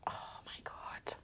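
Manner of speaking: breathless whispered disbelief; stunned whisper. Real, not acted. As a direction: whisper it in shock. Stunned by the news.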